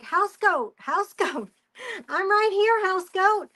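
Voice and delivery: sing-song call with a laugh; calling the goat. Retold or imitated. Owner calling her lost baby goat, lightly mock sing-song. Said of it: "finally she's like".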